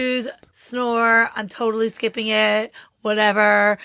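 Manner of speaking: put-on bored Valley Girl drawl, barely changed; lightly voiced Valley Girl, unimpressed. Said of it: "I totally went into my Valley Girl voice".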